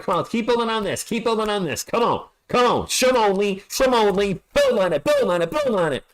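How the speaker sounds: high, urging chant to the team; excited cheering. Real, not acted. Streamer cheering the Spurs on during a run, high excited chant. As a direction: pump up the team.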